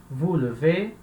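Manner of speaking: "levez" with a weak "euh" in the first syllable; E igual ao infinitivo. Shown as a demonstration. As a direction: say "levez" like "luh-vay". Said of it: "O som permanece igual ao infinitivo". ("levez" com o primeiro E fraco, sem abrir)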